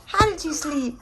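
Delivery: high cooing question. Real, not acted. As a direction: ask it sweetly to a pet. Cooing to the dog, repeated.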